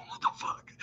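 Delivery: whispered disbelief, very soft; stunned whisper. Retold or imitated. Wrongly accused before the healer, whispered disbelief. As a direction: retell a silent inner shock in a whisper.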